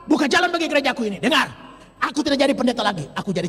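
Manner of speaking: fast, pushy demands; defiant ultimatum. Retold or imitated. Pastor challenging God with a deadline, fast and defiant. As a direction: rattle off terms at God, fast and cocky. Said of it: "sama Tuhan Allah tantang".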